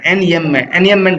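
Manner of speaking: "enjambment" with the j silent, said as "enamment". Shown as a demonstration. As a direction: drop the j sound in "enjambment". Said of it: "इसको जय नहीं पढ़ना, ये silent रहता है". ("enjambment" में ज की ध्वनि मौन, उच्चारण नहीं)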